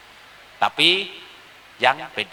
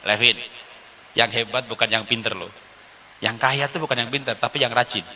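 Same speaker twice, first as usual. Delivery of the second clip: tender father; 3 semitones lower, 5 dB quieter than usual. Acted. Father encouraging his son.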